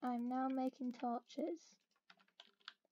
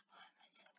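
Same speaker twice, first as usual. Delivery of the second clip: odd hushed voice; 28 dB quieter, much faster than usual. Real, not acted. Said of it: "my voice is all weird".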